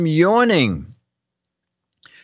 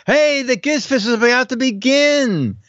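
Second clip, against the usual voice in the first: excited; 6 semitones higher than usual. Acted. Reading funny captions in voices.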